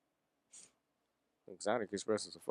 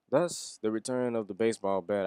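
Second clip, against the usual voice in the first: hyped announcement; 2 semitones higher, 5 dB louder than usual. Acted. Fan hyping the baseball bat's return, loud and excited.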